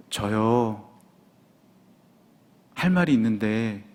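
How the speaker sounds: low, halting imitation of a wife; careful, hesitant. Sick wife cautiously starts telling her husband, hesitant. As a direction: imitate someone broaching news carefully, with long pauses. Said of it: "너무 이렇게 조심스럽게 얘기해서".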